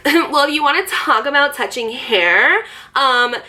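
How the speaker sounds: her snotty voice. Retold or imitated. Mimicking the girl's friend complaining about the ponytail, snooty. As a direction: imitate a snotty girl. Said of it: "this is how she talked".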